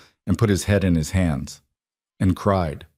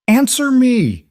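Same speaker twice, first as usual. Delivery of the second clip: high, loud, drawn-out yell; furious yell; 6 dB louder, slower than usual. Acted. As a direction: roar it in full rage. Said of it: "I'd never heard Adrian yell like that".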